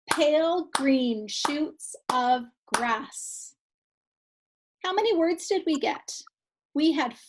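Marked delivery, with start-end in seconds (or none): 0.1-3.5 slow, one beat per syllable; clapped syllables. Shown as a demonstration. Teacher to class, slow syllable-by-syllable clapping. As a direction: clap each syllable slowly. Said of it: "We'll show you".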